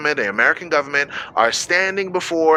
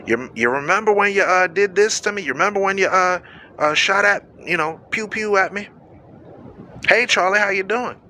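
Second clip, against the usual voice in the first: mock cheerful greeting. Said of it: "I'm gonna be smiling".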